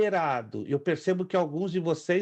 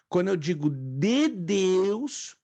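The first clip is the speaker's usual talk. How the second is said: "de" lifted and slow; stress on de; much slower than usual. Shown as a demonstration. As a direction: lean on "de Deus". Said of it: "teacher stresses "de".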